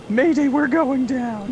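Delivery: high, slow pilot distress call; mayday radio call. Acted. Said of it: "talking to himself on the headset".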